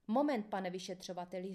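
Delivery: "Moment" punched at the start; firm interjection, leaning on "Moment"; emphatic. A narrator's reading. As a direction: stop him firmly on "Moment". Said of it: "řekl jsem důrazně".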